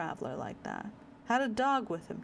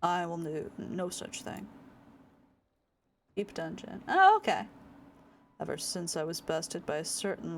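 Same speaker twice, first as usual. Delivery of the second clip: stern samurai. Acted. Samurai rival's solemn lines.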